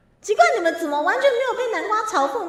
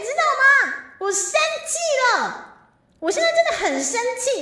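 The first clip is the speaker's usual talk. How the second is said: higher, louder pouty scolding; mock angry; 8 semitones higher, 4 dB louder than usual. Streamer declaring to viewers she is really angry, pouty mock scolding. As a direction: pretend fury aimed at chat.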